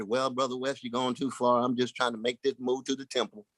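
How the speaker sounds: calm him down and wave off the idea; patient Jesus. Retold or imitated. Jesus answering Brother West, softly patient.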